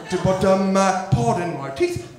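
put-on hesitant English customer accent. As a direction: ask haltingly in an English accent. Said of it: "People from England".

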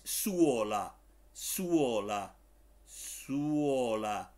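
Finnish "suola" said slowly, word by word; pronunciation demo. Shown as a demonstration. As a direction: model "suola" clearly, pausing between repeats. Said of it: "Así como suena". (pronunciación modelo de "suola", pausada y clara)

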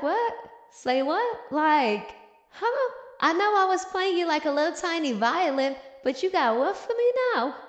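high-pitched comic disbelief, rising questions; incredulous. Retold or imitated. Duke reacting to a sudden love confession, mock incredulous. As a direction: play up being baffled, pitch jumping on "huh". Voices the Duke's baffled reaction.

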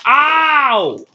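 high, long-drawn play "ow"; mock pain cry. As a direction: howl as if hit in the match. Wrestler hit in play match.

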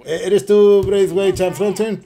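high, loud drawn-out holler; hailing loudly. Pretend. Player hailing a game character, high loud slow call. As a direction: call out slowly and loudly to a stranger.

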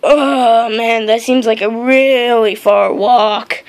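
slow, drawn-out moan; weary complaint. Acted. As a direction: drag the words out, dreading the walk. Complains about long journey.

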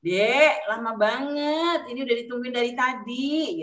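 drawn-out, gentler complaint; softened tone. Shown as a demonstration. Parent waiting for child, complaint in softened intonation. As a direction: stretch it out into a mild, patient plea. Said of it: "nadanya mungkin ya".

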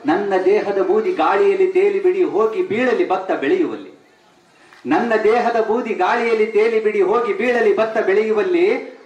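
measured, lingering poetry reading; poem recital. Acted. Speaker recites a poet's verse to the audience, lingering. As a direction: savour each line of the verse.

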